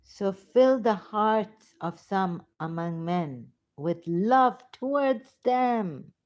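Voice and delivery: declaimed verse with drawn-out ending; scripture recitation. Acted. Preacher reading a verse to listeners, declaimed recitation. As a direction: read the verse out, stretching the last words. Reads scripture aloud with fervour.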